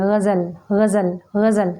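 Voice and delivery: गज़ल with a throaty gh and a z, repeated; correct pronunciation. Shown as a demonstration. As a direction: say गज़ल as ghazal, slowly, for practice. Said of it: "बार बार बोलिए". (ग़ज़ल बार बार, गले से ग़ और साफ़ ज़)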